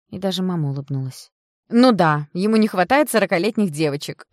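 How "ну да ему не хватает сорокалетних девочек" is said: laughing. Acted. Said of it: "Оксана опять захохотала".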